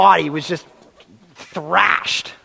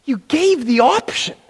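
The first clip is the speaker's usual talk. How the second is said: mild whiny excuse; 4 semitones higher than usual. Retold or imitated. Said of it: "I can almost hear them looking to God and saying".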